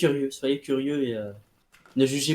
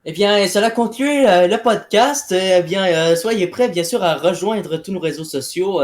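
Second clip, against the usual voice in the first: influencer outro; 4 semitones higher, 3 dB louder than usual. Pretend. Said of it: "merci de faire l'influenceur".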